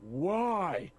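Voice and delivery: loud bellowing shout from above; booming roar. Acted. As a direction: roar it down from the tower. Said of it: "roaring down at you with".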